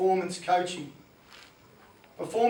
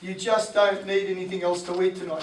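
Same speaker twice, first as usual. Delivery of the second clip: Skinny Wayne voice. Retold or imitated. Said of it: "Skinny Wayne says".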